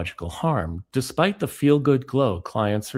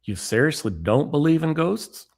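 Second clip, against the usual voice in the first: offended Southern friend; 6 semitones higher than usual. Retold or imitated. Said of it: "He sounds offended".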